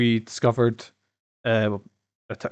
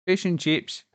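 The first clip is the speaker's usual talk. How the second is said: mock English accent; 5 semitones higher, slower than usual. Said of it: "Let there be bangers and mash kind of voice".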